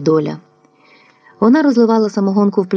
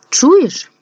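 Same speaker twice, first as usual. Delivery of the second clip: sharp cry; 9 semitones higher than usual. Acted. Dokiia cries out.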